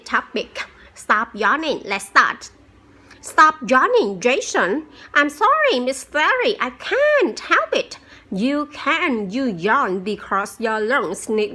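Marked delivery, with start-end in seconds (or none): 3.2-4.9 higher, louder teacher telling off a pupil; scolding teacher. Acted. Teacher scolds the yawning student. 5.1-8.0 put-on much higher child's voice, pleading a bit; little boy. Student Jason answers the teacher.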